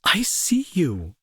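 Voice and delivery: slow, breathy whisper of reassurance; tender whisper. Acted. Promising the lonely friend he's seen, slow whisper. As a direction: lean in and whisper it slowly.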